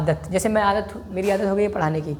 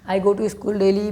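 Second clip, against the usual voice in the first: I go to school daily spoken very slowly, word by word; slow dictation; much slower than usual. Shown as a demonstration. Teacher dictating to students, very slow. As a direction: spell it out slowly for the class to copy.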